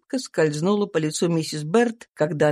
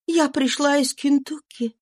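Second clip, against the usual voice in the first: higher, tense voice of a runaway mother; fugitive mother's voice; 8 semitones higher than usual. A narrator's reading. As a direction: voice the exhausted slave woman, pitched up. Eliza voiced in story. (беглая мать, голос выше, напряжённо)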